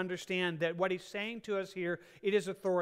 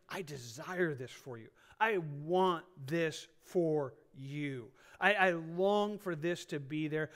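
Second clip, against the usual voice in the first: encouraging, not condemning; 3 semitones lower, slower than usual. Shown as a demonstration. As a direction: linger on each wish like a gentle promise. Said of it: "an encouraging".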